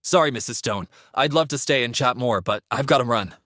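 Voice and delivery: brisk, buoyant apology; rushing off happily; excited. Acted. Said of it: "Aiden was so excited".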